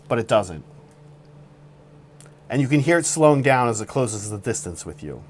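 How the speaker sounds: suspenseful campfire-story voice; dramatic storytelling. Acted. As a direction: paint a tense scene like a thriller. Dramatic story narration of roast.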